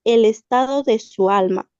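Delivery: measured dramatic reading with pauses between phrases; story reading. Acted. Student reading a tale to the class, measured dramatic reading. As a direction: read it aloud phrase by phrase, letting each hang.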